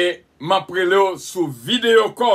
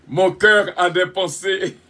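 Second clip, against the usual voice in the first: laughing. Real, not acted. Laughs through the line.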